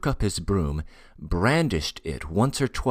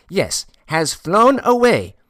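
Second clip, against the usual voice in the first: very high, loud and drawn-out mystery; more mysterious; 12 semitones higher, 9 dB louder than usual. A narrator's reading. Porter repeating his secret to Ordinov, heightened mysterious tone. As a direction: stretch it out slowly, high and portentous. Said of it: "he repeated in a still more mysterious tone".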